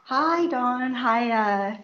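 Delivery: distant speakerphone sound; faint, far from the mic; over the phone. Real, not acted. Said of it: "if you're on speakerphone".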